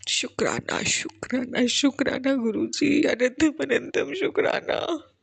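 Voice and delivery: a real emotional prayer of gratitude; choked with emotion. Real, not acted. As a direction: thank the guru while close to tears. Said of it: "sorry मैं emotional हो रही हूँ".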